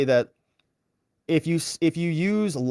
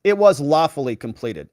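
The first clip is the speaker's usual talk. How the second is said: "lawfully" punched louder in "It was lawfully completed"; stress on lawfully; 5 dB louder than usual. Shown as a demonstration. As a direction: hit the word "lawfully" like an instrument. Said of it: "they're just emphasizing lawfully".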